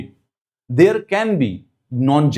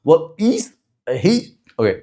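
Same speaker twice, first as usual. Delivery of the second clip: put-on Texan accent. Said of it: "थोड़ा सा American टेक्सन accent भी आ गया".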